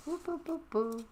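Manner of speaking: high whooping alarm sound; siren whoop. Acted. Reader making a siren noise between scenes. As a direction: mimic a siren going whoop.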